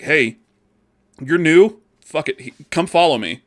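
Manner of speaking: eager helpful veteran. Retold or imitated. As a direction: shout it like a generous veteran player. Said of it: "being like".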